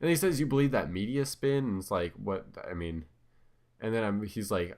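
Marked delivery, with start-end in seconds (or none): 0.4-1.6 higher-pitched retort, lightly imitated; mock incredulous challenge. Host quotes his online debate opponent, mildly incredulous. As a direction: throw it out as a retold scoff.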